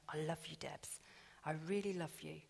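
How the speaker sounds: soft unvoiced whisper of tenderness; God whispering his love to Debs. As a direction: breathe it like a secret. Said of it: "Father God is always saying to me".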